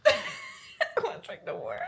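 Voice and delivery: high laughing repeat; laughing squeal. Real, not acted.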